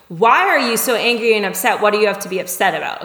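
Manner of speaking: pointed, defensive question; accusing. Shown as a demonstration. Coach shows the judging reply to someone upset, accusing. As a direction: push it back at them, with emphasis.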